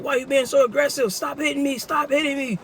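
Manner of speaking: high, pleading whine; whiny thief. Retold or imitated. Thief pleading with the narrator to stop hitting him. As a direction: whine like you're being slapped.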